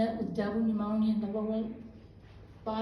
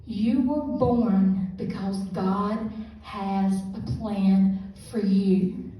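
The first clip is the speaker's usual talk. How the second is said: gentle reassurance; 7 dB louder, much slower than usual. Retold or imitated. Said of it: "I heard this little voice".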